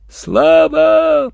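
loud, high call across the water. A narrator's reading. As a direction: shout the name to someone far off. A call from the far bank. (громко, зовёт через реку)

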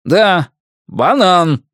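high, drawn-out teasing; giggling teasing. A narrator's reading. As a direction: stretch it slowly, about to giggle. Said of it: "спрашивает падла и заходится мелким хихикающим смехом".

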